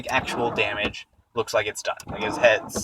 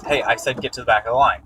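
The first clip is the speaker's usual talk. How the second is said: brisk, slightly raised tough-guy order; firm mock demand; 5 dB louder, faster than usual. Vigilante warns line-cutters, a quick, slightly raised demand. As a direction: snap it out like a would-be hero. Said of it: "he goes and he says".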